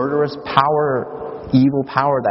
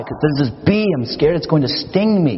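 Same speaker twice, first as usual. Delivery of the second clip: higher-pitched, mildly fearful child imitation; mock scared boy; 5 semitones higher than usual. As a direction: explain the fear as a little boy would, lightly acted. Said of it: "he's just really scared".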